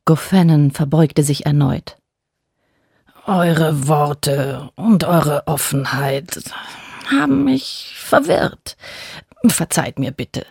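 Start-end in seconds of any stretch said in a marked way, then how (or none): 3.3-10.4 slow hushed whisper. A narrator's reading. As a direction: whisper it, humbled. God apologises, cowed.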